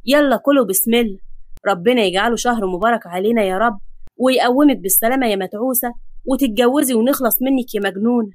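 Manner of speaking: lightly voiced affectionate patriarch; loving. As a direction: bless the family with gentle affection. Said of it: "بص لهم بحب وقال".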